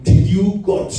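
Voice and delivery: high, slow mock questioning voice; Lord questioning. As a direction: stretch it out as a mock accusing Jesus. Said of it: "he will ask you".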